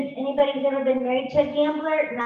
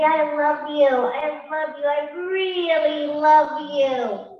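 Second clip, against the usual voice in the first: self-love affirmation; 2 semitones higher, 4 dB louder, much slower than usual. Shown as a demonstration. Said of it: "just say".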